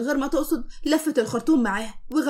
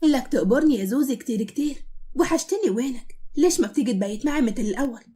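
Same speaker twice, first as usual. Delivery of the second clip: coquettish Levantine. Acted. Woman hugs the husband, flirty Levantine cooing. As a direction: coo at him in Levantine. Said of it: "وهي بتقول له بدلع".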